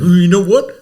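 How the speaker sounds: mock worked-up "ooh" winding up to speak; teasing impression of getting into it; worked-up imitation. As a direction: imitate someone getting riled. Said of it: "And then you get real, like, you, it's like you're in it".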